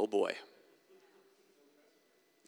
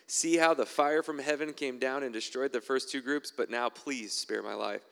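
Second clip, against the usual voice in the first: slow, louder pleading plea; pleading captain; 2 semitones higher, 4 dB louder than usual. Acted. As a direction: beg for your life, drawn out. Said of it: "He pleaded with him".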